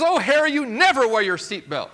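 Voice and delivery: high, loud nagging wife. Acted. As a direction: pester Harry in a shrill-free high voice. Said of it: "And the wife says".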